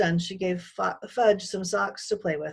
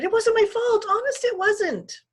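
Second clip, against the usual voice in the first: put-on high, loud pleading girl voice, slow at the end; a scared girl protesting her innocence; crying girl; 8 dB louder than usual. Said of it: "Sheila cried".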